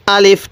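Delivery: আলিফ said short, without drawing out the vowels; teacher's brief model of আলিফ; no stretching. Shown as a demonstration. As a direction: cut আলিফ short, no lengthening. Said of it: "টান দিবেন না আবার".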